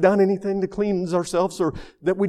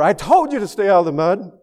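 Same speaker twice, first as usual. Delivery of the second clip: higher-pitched parental telling-off, lightly acted; mock scolding; 4 semitones higher than usual. Father to muddy daughter, imitated mild scolding. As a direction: scold a child, punching the reproach. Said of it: "Did he scold her and tell her".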